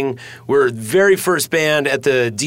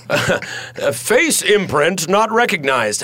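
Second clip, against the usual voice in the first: slow, higher mock machine announcement; face scanner voice; 4 semitones higher, slower than usual. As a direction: play a security system refusing entry. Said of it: "and it was like".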